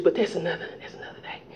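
fading to a whisper; whispered aside. Real, not acted. Preacher cutting off a tangent, whispered. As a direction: let it slip away quietly. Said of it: "trailing aside".

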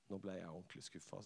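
softly, as if holding back tears; tearful teacher. Retold or imitated. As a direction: speak through disappointment. Og så grein hun.

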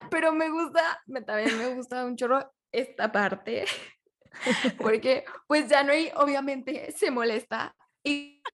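choppy broken-up call audio; robot voice, call dropping out. Real, not acted. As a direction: voice cutting out like a robot. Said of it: "Se escucha como, ay, no, como un robot".

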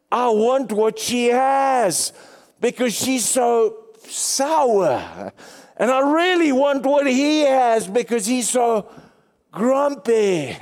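slow, high, mocking voice of an onlooker. Preacher mocking onlookers, slow high sarcastic voice. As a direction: sneer at the sour Christians in a high drawn-out voice. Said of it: "the unsaved are gonna look at them and say".

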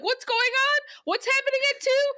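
high-pitched exasperated questioning; mock-frantic, rising questions; baffled. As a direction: demand an answer, voice leaping up. Acts out bafflement at vague questions.

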